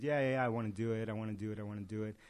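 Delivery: quick, dismissive "yeah yeah", fading away; a lightly mocking, trailing-off imitation; mock half-hearted. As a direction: imitate someone who only says they want it. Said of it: "go through the motions".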